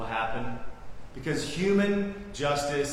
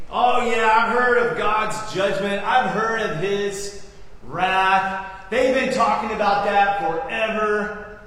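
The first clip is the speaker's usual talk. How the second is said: hammed-up scoffing, higher and louder; mocking boast; 4 semitones higher, 4 dB louder than usual. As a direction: play a boisterous scoffer laughing off judgment. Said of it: "boisterously, mockingly, vivaciously was saying".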